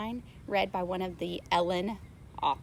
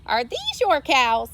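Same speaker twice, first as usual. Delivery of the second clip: louder sheriff question; sheriff asking; 4 semitones higher, 8 dB louder than usual. A narrator's reading. Sheriff asking the farmer about his cows. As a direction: demand it of the farmer. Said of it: "The sheriff asked".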